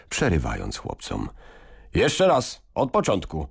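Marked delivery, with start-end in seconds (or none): 1.9-3.5 put-on dance teacher calling the boys to restart. A narrator's reading. Call out to restart the dance. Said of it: "zawołał".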